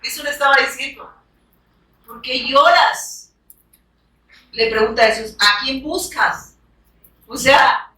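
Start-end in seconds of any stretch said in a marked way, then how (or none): 2.1-3.3 very slow, gentle question as Jesus; tender question. Acted. Jesus gently asking the weeping woman, slow and tender. 5.4-6.5 very slow, gentle question as Jesus; tender question. Acted. Jesus gently asking the weeping woman, slow and tender.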